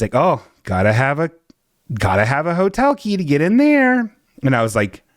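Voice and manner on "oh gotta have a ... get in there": mock door lady.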